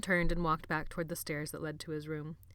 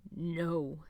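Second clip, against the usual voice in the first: through gritted teeth. Acted. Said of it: "he said through his teeth".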